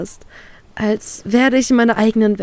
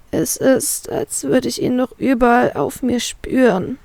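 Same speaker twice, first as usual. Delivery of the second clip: disgusted; 4 semitones higher than usual. Acted. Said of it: "erkläre ich angeekelt".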